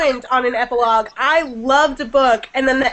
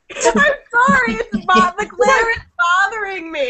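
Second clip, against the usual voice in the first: blocked nose; 6 semitones higher than usual. Real, not acted. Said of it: "I can't breathe through my nose".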